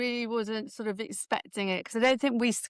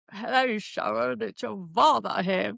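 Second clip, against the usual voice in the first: a lightly put-on northern accent, not quite landing; a bad stab at northern English; mock northern accent. Daughter mimics her father's phone greeting in a mock northern accent. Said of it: "I don't know where that voice came from".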